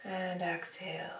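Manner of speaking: softly whispered cue. Real, not acted. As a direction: breathe the word out on the exhale. Cueing the exhale in class.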